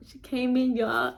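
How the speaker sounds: happy lift, smiling as you tell it. Real, not acted. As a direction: relish the best part with a smile. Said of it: "I'm sorry, I be smiling".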